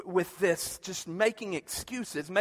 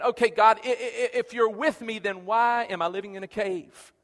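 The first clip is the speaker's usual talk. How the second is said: pleading Gideon; 4 dB louder than usual. Acted. Preacher voicing Gideon's complaint.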